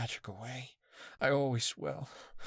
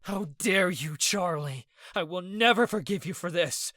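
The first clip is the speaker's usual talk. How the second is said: high, loud furious yelling; explosive rage; 10 semitones higher, 6 dB louder than usual. A narrator's reading. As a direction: scream it at the friend who hurt your sister. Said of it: "Ez exploded".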